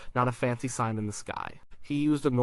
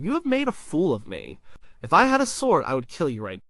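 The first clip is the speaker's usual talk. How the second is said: mock furious rider, high and loud on the sword threat; retold angry yell; 4 semitones higher, 3 dB louder than usual. Angry prophet yelling at his stubborn donkey, mock shout. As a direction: yell it at the donkey, half-acted. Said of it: "He just kept yelling".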